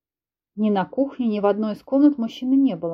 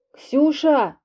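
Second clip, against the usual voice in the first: calling out; 6 semitones higher, 4 dB louder than usual. Acted. Filya calling for help from shower.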